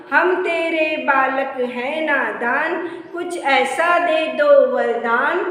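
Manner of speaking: slow, measured singsong recital; children's poem recitation. Shown as a demonstration. Teacher modelling विनती for pupils to learn, slow rhythmic recitation. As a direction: recite line by line in a steady rhythm, stretching the vowels.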